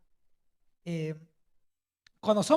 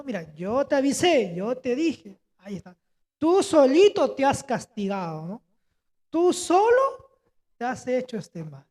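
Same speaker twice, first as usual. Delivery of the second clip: scolding mother; 4 dB louder than usual. Retold or imitated. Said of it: "Sabias palabras de madre".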